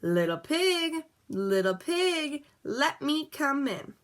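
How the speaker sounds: high, slow, coaxing wolf; sly wolf calling at the door. A narrator's reading. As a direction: croon it slowly like a sly wolf. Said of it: "along came the wolf and said".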